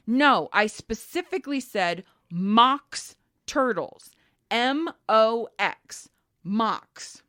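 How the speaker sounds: slow, over-precise mock correction; huffy insistence. Lady correcting the pet store clerk, huffily insistent. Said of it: "the lady gets all huffy".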